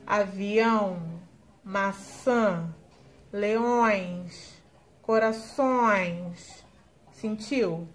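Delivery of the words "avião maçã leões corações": avião, maçã, leões with nasal ão, ã and ões, corações very slow; slow nasal examples; nasal sound demo. Shown as a demonstration. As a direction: hum the nasal syllables through the nose. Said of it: "vai vibrar".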